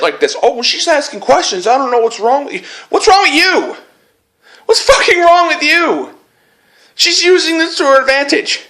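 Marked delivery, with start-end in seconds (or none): 0.4-2.6 mocking whine. Mocking Anita's defenders. 2.9-8.6 furious shout. Real, not acted. Furious rant at her.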